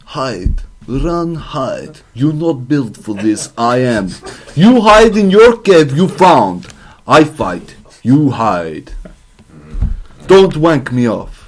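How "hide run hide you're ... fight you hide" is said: put-on Serbian accent. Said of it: "This accent's gonna be great".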